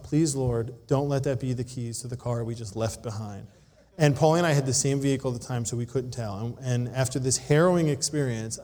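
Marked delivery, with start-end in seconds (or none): 0.0-3.5 silent prayer. Retold or imitated. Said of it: "thinking to myself".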